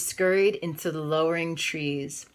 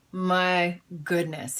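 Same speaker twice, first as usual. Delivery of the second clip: mild cry; slower than usual. Acted. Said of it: "he cried".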